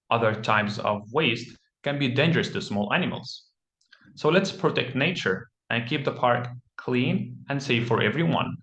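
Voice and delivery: model read-aloud. Shown as a demonstration. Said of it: "you would say something similar to".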